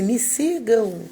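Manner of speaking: calling out. Retold or imitated. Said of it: "essa pessoa gritou assim".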